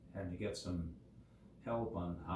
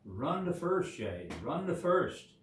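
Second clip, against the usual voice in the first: high, loud teammate's cheer to run; shouting; 7 semitones higher, 7 dB louder than usual. A narrator's reading. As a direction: call it out urgently across the field. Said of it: "started shouting to him".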